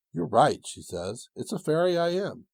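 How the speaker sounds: a small fairy chirping her answer. Acted. Fairy speaks, voiced by reader.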